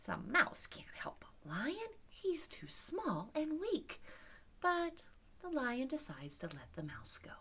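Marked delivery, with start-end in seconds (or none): 0.0-4.0 mildly scoffing, slow and drawn out; amused disbelief. Acted. Lion finds mouse's offer funny, amused disbelief. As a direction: muse slowly, lightly dismissive. Lion's scornful thought about mouse.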